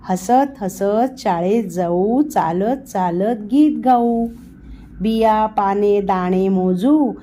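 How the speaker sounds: slow sing-song school rhyme, lightly done; children's poem reading. A narrator's reading. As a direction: recite it slowly like a nursery rhyme.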